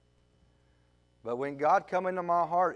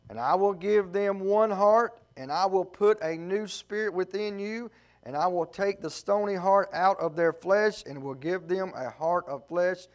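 steadier, plainer scripture reading; a preacher finishing the passage. Acted. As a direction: read it through toward the close. Reads scripture again.

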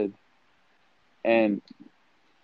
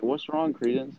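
aunt's worried question; 3 semitones higher, 4 dB quieter than usual. Retold or imitated. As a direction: ask it gently, raised pitch. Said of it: "she looks at her and she's like".

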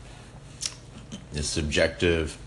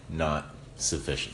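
talking with mouth full; words round a bite of food; 4 semitones lower, 7 dB quieter than usual. Real, not acted. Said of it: "I caught you with your mouth full".

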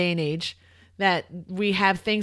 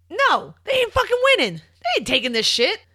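emphatic; 11 semitones higher, 4 dB louder than usual. Real, not acted. Heated trash talk about Raptors.

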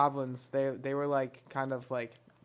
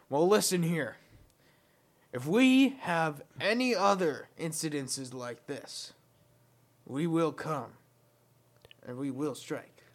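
menacing hobgoblin; slower than usual. Acted. Hobgoblin threatens the party.

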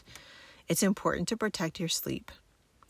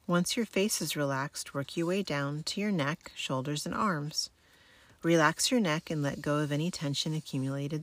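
sleep story narrator. Acted. Guides military sleep method relaxation.

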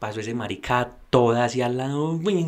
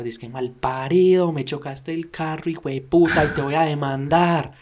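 half-mimicked angry driver, somewhat higher; imitating a yell; 4 semitones higher than usual. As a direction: retell the furious driver's insults with a mock edge. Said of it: "y me empezó a gritar". (imitación de un conductor furioso gritando)

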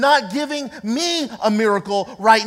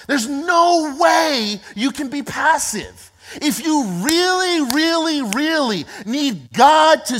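fervent preaching; 4 semitones higher than usual. Real, not acted. Preacher building to fervent point.

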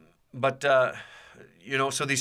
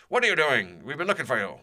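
retold angry demand, pitched up; Jason angrily scolding; 5 semitones higher than usual. Branch leader confronting a missing boy, mock angry yell. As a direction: scold like a leader who has been out searching. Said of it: "he was very angry and yelled at me".

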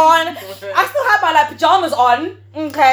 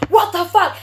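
same raised tone, like a stuck record; stunned, looping disbelief; 6 semitones higher, 5 dB louder, slower than usual. Retold or imitated. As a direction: imitate his shock, raised and louder. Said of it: "in the same tone".

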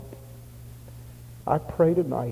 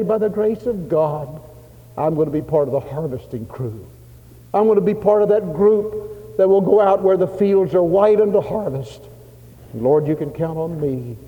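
high, loud, fervent vow; rally the room behind the words; rousing pledge; 6 semitones higher, 5 dB louder than usual. Retold or imitated. Preacher leads the congregation in a pledge, fervently loud. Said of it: "I want to appeal to you".

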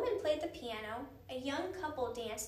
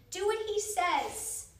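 high, loud, slow emphatic command; indignant, raised-voice insistence; insistent order; 7 semitones higher, 6 dB louder, much slower than usual. A narrator's reading. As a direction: order them sternly, drawing out each word. Annie orders the woman to obey.

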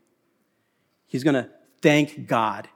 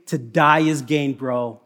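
lightly voiced Paul; 3 semitones lower than usual. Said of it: "he'll be saying".

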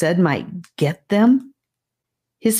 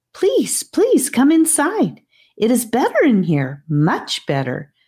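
put-on pleading little girl; 7 semitones higher than usual. A narrator's reading.

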